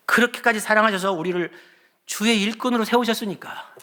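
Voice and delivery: high, loud, rising sermon climax; a pastor pleading with the congregation, loud and high; impassioned preaching. Acted. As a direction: preach it out with full fervor.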